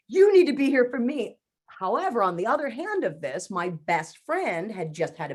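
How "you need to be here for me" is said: louder, needy demand; selfish demand. Retold or imitated. To her therapist, a louder selfish demand. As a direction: insist like a spoiled child who wants attention. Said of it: "but my selfish".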